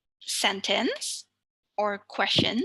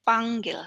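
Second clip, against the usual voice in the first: panggil with PANG stressed; stress on penultimate syllable. Shown as a demonstration. Teacher repeats the last example, panggil, stressing first syllable PANG. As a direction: put the weight on PANG in panggil. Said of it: "The penultimate syllable".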